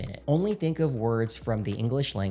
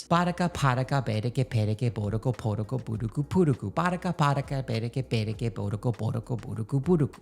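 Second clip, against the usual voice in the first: one-breath drill; faster than usual. Shown as a demonstration. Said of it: "say it two times in a row, all in one breath, a little bit faster".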